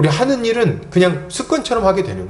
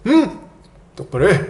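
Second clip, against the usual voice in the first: acted stern scolding; 3 semitones higher than usual. Acts parent scolding child.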